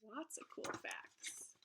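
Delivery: slow soft whisper. Real, not acted. Teacher to class, slow whispered aside. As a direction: breathe it out slowly as a whisper. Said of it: "whispered aside after reading".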